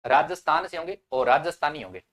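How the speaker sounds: "राजस्थान से" and "राजस्थानी" both punched loudly; loud teacher's stress on "राजस्थान से" against "राजस्थानी"; emphatic contrast. Shown as a demonstration. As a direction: hit "राजस्थान" and "राजस्थानी" hard to contrast them. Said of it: "ये बात कह रहा हूं मैं".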